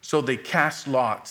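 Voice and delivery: measured Bible reading, phrases falling at the ends; solemn scripture read. Acted. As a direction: read the Word steadily to the church.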